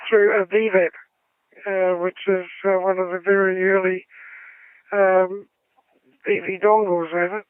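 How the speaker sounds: filtered over-the-air radio voice; radio sound. Real, not acted. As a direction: voice through a radio speaker. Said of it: "Sound like you're coming through a radio".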